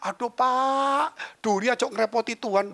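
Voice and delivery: high, drawn-out "aduh" of reproach; mock exasperation. Doctor friend chides the pastor over a fishbone, high exasperated imitation.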